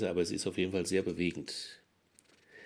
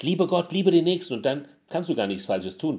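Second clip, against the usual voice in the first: fervent preaching; 8 semitones higher, 8 dB louder than usual. Acted.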